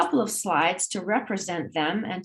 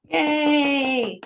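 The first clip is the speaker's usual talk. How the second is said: high, louder happy yay; excited cheer; 6 semitones higher, 4 dB louder than usual. Real, not acted. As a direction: lead the applause with a cheer. Cheering for departing student teacher.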